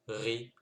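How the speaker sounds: ri: r suivi d'un i; wrong vowel take. Shown as a demonstration. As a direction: montrer la voyelle à éviter. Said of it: "on ne cherche pas à dire". (r avec voyelle, à ne pas faire)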